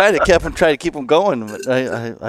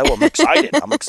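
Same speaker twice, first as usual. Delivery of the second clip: put-on gushing fan, higher in a Wisconsin accent. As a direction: play an excited Wisconsin hunting guide. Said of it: "in the Wisconsin accent".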